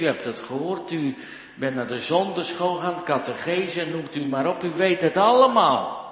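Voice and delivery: voicing God's reproach, building to a loud, high finish; building exasperated rebuke. God lets the churchgoer go his own way, exasperated rebuke. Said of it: "Hij kan ook zeggen".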